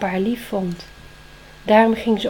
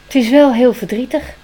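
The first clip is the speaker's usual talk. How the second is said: loud owl voice; comforting owl; 4 semitones higher, 10 dB louder than usual. Acted. Wise owl comforts Spring with a wing around her, loud.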